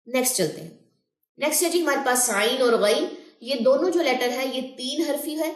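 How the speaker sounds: ordinary talk, nothing marked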